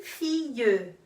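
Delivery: fille said "fiy", long and slow. Shown as a demonstration. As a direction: stretch fille out, no L sound. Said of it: "eu pronuncio fille". (fille pronunciado devagar, sem o L)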